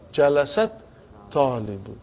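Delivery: "Jalasat" left hanging, pause, low falling "talibu"; split pronunciation demo. Shown as a demonstration. Teacher showing the class the problem, "Jalasat" and "talibu" kept apart. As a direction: break the phrase after "Jalasat", sink on "talibu". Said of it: "how will you pronounce it".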